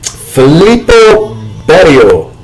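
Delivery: slow, grand brand read; mock grand announcer. Reading the olive oil brand aloud, slow mock-grand. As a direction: savour it like an old commercial.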